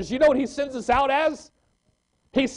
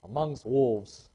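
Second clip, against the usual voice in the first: scripture reading; 6 semitones lower, slower than usual. Acted. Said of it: "Luke ten three says".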